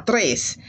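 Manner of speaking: "tres" with a light rolled R; softly tapped Spanish R in "tres"; slightly rolled R. Shown as a demonstration. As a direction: roll the R in "tres" a little. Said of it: "little roll on the R".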